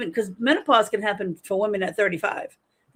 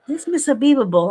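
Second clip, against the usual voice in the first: higher and louder call across the room; calling for her; 6 semitones higher, 6 dB louder than usual. Retold or imitated. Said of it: "I'm like".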